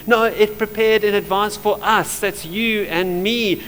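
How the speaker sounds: emphatic correction, punching "us"; stress on US. Shown as a demonstration. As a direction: hit "us" hard, then slow down for "you and me". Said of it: "I need to stress that word, us".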